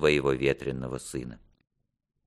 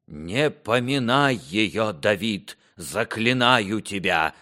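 slow, higher-pitched reproach; pained entreaty; 5 semitones higher, slower than usual. Acted. King forbids son to name his mother, pained entreaty. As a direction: implore him, stretching the words.

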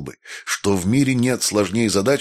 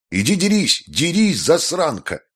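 much higher raging shriek; furious scream; 9 semitones higher than usual. A narrator's reading. Maestro screaming at Jessica to go fight, much higher furious shriek. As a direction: let the rage burst out.

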